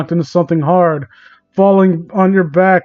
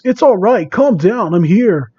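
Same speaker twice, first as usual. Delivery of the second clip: soothing; 2 semitones higher than usual. Acted. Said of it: "This voice calms you".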